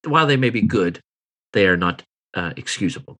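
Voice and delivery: a lightly voiced refined businesswoman, a little flustered; apologetic Eliza. GM continues as Eliza.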